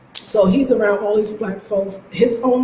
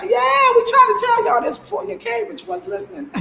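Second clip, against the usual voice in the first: told you so; 12 semitones higher than usual. Retold or imitated. Answering Ghanaians as Black Americans.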